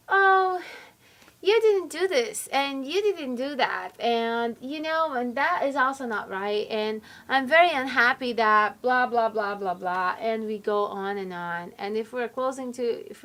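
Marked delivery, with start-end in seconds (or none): 0.1-10.2 hammed-up nag, loud opening oh; nagging complaint. Partner nagging about everything left undone, mock complaining. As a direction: reel off grievances into impatient blahs. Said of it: "we complain and we nag".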